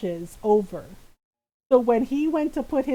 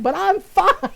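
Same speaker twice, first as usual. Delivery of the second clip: sarcastic; 7 semitones higher, 8 dB louder than usual. Retold or imitated. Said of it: "he says sarcastically".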